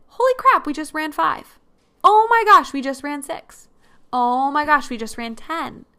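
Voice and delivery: mock-thrilled outburst, high and loud on each exclamation; retold amazed celebration. Runner celebrating each new distance with her sister, excited. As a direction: burst out on the exclamation, then ease down.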